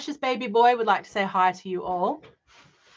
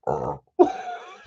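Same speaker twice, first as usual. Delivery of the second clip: burp. Real, not acted. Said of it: "Maybe I can do it quietly".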